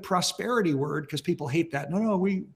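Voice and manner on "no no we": quick mock protest, rattled off; mimicked objection. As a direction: parody people brushing off bad news. Mimics people rejecting an unwelcome message.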